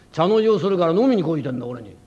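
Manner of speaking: 「飲みに来いてんだ」を大きめの声で力む; 「茶の湯」を慌てて言い立てる; 力んで言い立てる. Acted. 亭主が女房に言い立てる. (女房に向かって「茶の湯をするから飲みに来いてんだ」と大きめに言い立てる)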